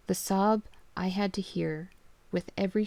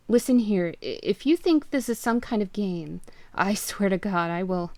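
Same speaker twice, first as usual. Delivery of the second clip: louder threatening yell; 5 dB louder than usual. Acted. Father yelling threats at the caller. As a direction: threaten the prankster. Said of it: "I started yelling into the phone".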